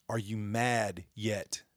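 slow, quiet jab after shouting; quiet challenge. Real, not acted. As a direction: drop the voice and let it sink in. Repeated challenge, quiet take.

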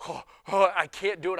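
loud, exasperated groaning complaint; mock frustration. Fumbling son-in-law on the ladder, mock frustrated. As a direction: act out giving up mid-struggle, loudly. Reenacts fumbling with light fixture.

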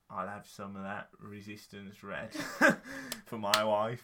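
a lightly voiced South London bloke; raccoon voice. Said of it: "then you did your raccoon voice".

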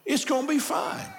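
calm his fears gently, rising on the end; tender reassurance. Acted. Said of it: "tenderly reassure Isaiah".

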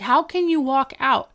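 high-pitched imitated outrage; retold indignant objection; mock protest. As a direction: protest in disbelief, voice jumping up.

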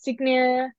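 "Signia" with the g sounded, "SIG-nee-a"; mispronounced name. Shown as a demonstration. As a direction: misread the name with a hard g. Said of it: "what names have you been called".

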